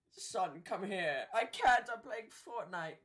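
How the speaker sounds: put-on loud high whiny kid yell. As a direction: shout it like a gamer kid refusing. Kid voiced yelling at parent.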